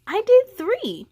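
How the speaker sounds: pleased boast; proud boast. Acted. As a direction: brag a little. Boasting about extra work.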